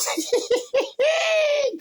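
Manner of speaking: loud, shrieking cackle; high squealing laugh. Real, not acted. Storyteller cracking up at his own joke, high squealing laugh.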